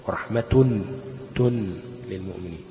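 ورحمة said as rahmatun, the "tun" repeated after a pause; ta pronounced when joining. Shown as a demonstration. Teacher demonstrates joined reading, ورحمة sounded with a T. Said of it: "لو وصلتها هتوصلها بالتاء".

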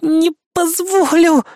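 high, slow, drawn-out strained cry; Kay holding him, slow and high; straining harder. Acted. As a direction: drag it out with all her strength.

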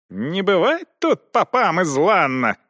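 a mild narrated shout from the crowd. A narrator's reading. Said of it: "крикнул один из нобелей".

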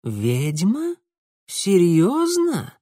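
slow, rising amazed question; surprised Mara. A narrator's reading. Mara amazed, creak gone from her voice. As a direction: ask in real amazement. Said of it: "Мара удивилась настолько".

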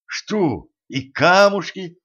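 can't believe she'd hide the gems; sharp indignation; indignant. A narrator's reading. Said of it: "возмутился Денис".

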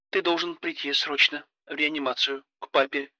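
high, soft, anxious plea; urgent and worried, holding back panic. Acted. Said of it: "Её голос был странным". (тревожный голос)

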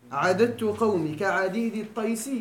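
slow, measured reading of the verse; drawn-out teaching recital; slow recitation. Shown as a demonstration. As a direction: recite it word by word for the class. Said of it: "teacher recites verse again".

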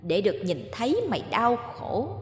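a cold, taunting ghost woman, lightly voiced; vengeful ghost. Ghost Lý taunting Mạnh over his suffering, lightly voiced. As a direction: savour every word of his pain.

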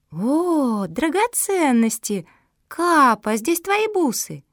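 thrilled discovery. Acted. Kuki finds jewels, thrilled.

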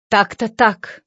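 tragic. A narrator's reading. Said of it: "трагически согласился он".

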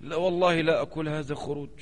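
soft, limp mock voice of a fence-sitting scholar; mock timid piety; mocking the hesitant pious man. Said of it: "ورع الأستاذ".

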